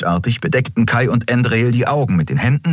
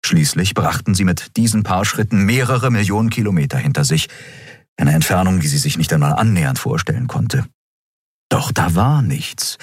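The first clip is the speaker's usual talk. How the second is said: ordinary delivery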